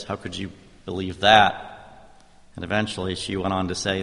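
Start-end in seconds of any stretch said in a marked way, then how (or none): 0.0-1.6 louder, the barrage peaks on that; incredulous challenge. Retold or imitated. The dinner guest presses the pastor on his faith, louder and incredulous. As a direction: push the challenge harder. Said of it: "started into a barrage of".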